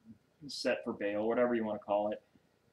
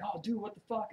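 higher, softer startled friend; surprised recognition; 9 semitones higher, 4 dB quieter than usual. Retold or imitated. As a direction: play the shocked old drinking buddy. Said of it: "And he's like".

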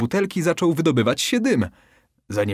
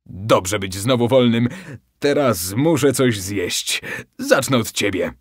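a hint of a hungry genie. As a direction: savour the threat, lightly voiced monster. Hungry genie threatens fisherman.

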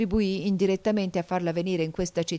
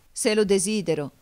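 louder, higher, desperate cry; cried out; 4 semitones higher, 6 dB louder than usual. A narrator's reading. Nicò cries out to Glindon, pleading loudly. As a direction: burst out begging to be saved. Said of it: "gridò".

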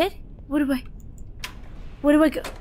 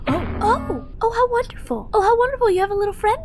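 mock delight; 8 semitones higher than usual. Greeting strange passenger sarcastically.

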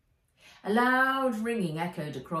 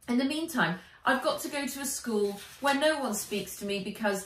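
put-on higher, brighter girl's voice for Nat; lightly raised girl's voice; Nat's voice; 4 semitones higher, 3 dB louder than usual. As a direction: lift the voice into a young girl confiding.

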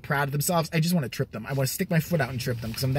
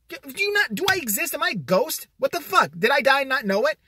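mock outrage; 10 semitones higher than usual. Exasperated inner rant at being ignored.

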